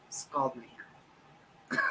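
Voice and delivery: slow, breathy whispered grumble; whispered aside. Real, not acted. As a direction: hiss it out slowly under your breath. Bitter aside about scalding cups.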